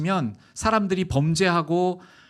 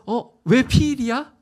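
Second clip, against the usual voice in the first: voice of God; 8 semitones higher, 7 dB louder than usual. Acted. God asks Adam why.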